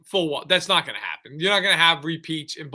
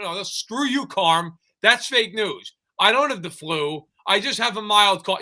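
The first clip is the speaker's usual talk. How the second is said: mock denial; 5 semitones higher than usual. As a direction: play the huffy denier. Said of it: "And I went".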